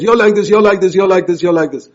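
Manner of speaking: mock a nagging complainer, pointing each phrase; nagging complaint. Preacher mimics a husband nagging the church, loud and accusing. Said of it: "Jesus didn't just complain about the church".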